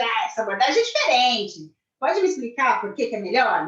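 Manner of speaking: polite words, cynical bite; irritated tone. Shown as a demonstration. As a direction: ask it through clenched irritation. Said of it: "a gente também tá com raiva".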